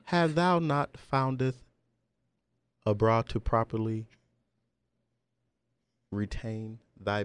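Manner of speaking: hammed-up old English recital; shakespeare verse. Recites mock archaic ode.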